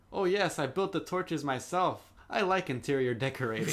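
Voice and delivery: a hint of a pleased host; lightly voiced Incan leader. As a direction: deliver it as a mild mock boast. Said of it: "the Incan leader is like".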